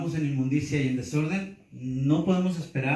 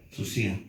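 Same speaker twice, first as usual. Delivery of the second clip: "Susia" lower, stressed on the I; stress on I before A; 5 semitones lower than usual. Shown as a demonstration. Teacher rounds off spelling a Greek word, I stressed. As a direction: say "Susia" low, leaning on the I before A. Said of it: "con acento A".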